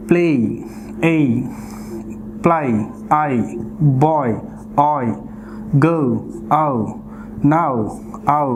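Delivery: each word, then its glide alone: "ప్లే, ఏయ్", "బాయ్, ఆయ్"; "నౌ, ఔ" as isolated teacher's examples; demonstrating diphthongs. Shown as a demonstration. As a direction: read "ప్లై, ఐ", "గో, ఔ" as separate model sounds, pausing between. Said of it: "ఇప్పుడు నేను చదువుతాను".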